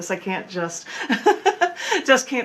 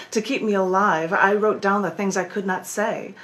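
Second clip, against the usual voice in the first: performed spoken-word poem, measured phrasing; poetry reading with dramatic pauses; poem recitation. Acted. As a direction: recite it deliberately, leaning on key words. Recites own poem Burn It In.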